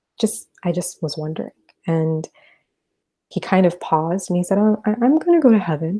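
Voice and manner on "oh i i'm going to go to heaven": squeaky, high, unsure, hesitant stammer. Retelling a young man's answer about heaven or hell, imitating a high-pitched voice. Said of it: "His voice was really high pitched".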